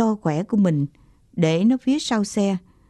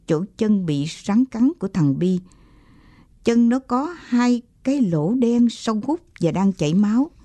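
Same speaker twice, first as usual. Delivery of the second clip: usual speaking voice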